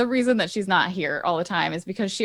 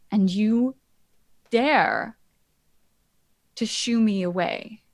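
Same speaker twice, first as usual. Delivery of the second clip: haughty indignation; slower than usual. Acted. Regent answers Tabitha haughtily.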